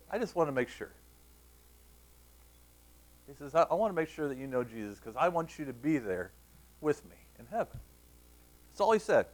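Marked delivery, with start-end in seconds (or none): 0.1-0.9 softer, gracious reassurance. Retold or imitated. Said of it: "Bryce very graciously". 3.5-7.8 soft, gracious appeal to a younger cousin. Retold or imitated. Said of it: "Bryce very graciously".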